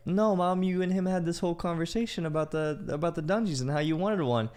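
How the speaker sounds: high-pitched imitation of a kid objecting; retold protesting kid. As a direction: protest like a child correcting mom. Kid contradicts mom in retold quarrel.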